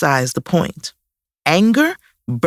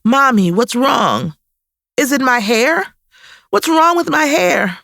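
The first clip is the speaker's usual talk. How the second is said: put-on high, loud, near-tears little girl; a child pleading louder and louder; louder distressed child; 7 semitones higher than usual. A narrator's reading. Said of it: "in an even louder voice".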